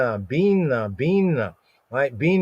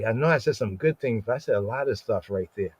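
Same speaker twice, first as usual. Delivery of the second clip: hushed self-talk, trailing lower; mock muttering to oneself; 3 semitones lower, 6 dB quieter, faster than usual. Teacher imitating us muttering over our own words, hushed. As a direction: mumble it like second-guessing yourself. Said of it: "We be like".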